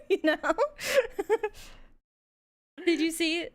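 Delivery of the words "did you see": normal talking voice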